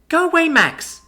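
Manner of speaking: high, loud frightened scream. Acted. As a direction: shriek it at him to get away. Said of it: "she screamed".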